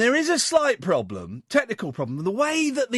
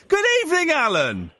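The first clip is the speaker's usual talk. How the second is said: greeting that starts high and drops on the name; a touch of Dalek; 7 semitones higher than usual. Real, not acted. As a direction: call out high, slightly Dalek-like, then fall. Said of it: "You sound like a Dalek".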